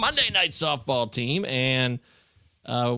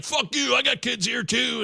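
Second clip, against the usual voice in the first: higher, snapping comeback; mock angry retort; 8 semitones higher than usual. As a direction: throw it back at the scolder. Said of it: "And then the other's like".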